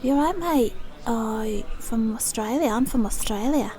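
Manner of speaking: badly faked Australian accent; put-on Aussie greeting. Shown as a demonstration. Practising on an imagined mate, attempted Australian accent. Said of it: "I can't do my Australian accent".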